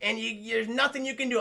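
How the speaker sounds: loud hammed-up Cage; mock Cage bluster. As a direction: bark orders like an unhinged cop. Cage barging into the bar.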